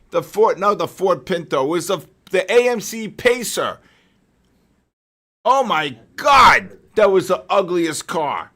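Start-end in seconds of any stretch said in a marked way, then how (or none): 5.5-8.5 disgusted exclamation. Real, not acted. Recalling the ugly car.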